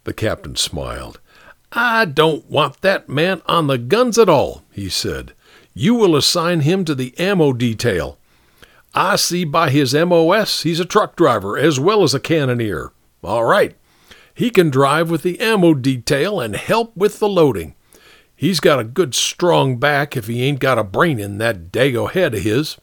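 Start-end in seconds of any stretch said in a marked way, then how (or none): 1.7-4.6 high, smiling officer; self-satisfied captain. Acted. Captain taking a soldier off the guns, self-satisfied. Captain smiles, then rules. 5.7-22.8 higher-pitched officer giving orders; disdainful captain. Acted. Captain sending a soldier to ammo detail, disdainful.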